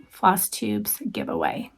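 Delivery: teasing whispered announcement. Real, not acted. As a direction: whisper it like a little secret. Announcing a secret giveaway.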